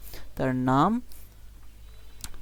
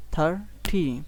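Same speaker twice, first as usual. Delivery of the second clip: থার্টি split into two clear beats; stressed syllable demo; 2 semitones higher, slower than usual. Shown as a demonstration. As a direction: separate থার and টি in থার্টি. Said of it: "এটা একটু জোরে বলতে হবে".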